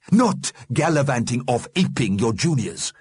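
a hint of a stern elder; disapproving Mister Grimm. A narrator's reading. Mister Grimm scolds the dead, disapproving.

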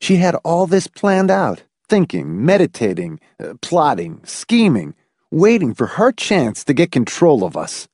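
woman's voice, high at start and end; worried wife. Acted. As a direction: lay out her scheming, step by step.

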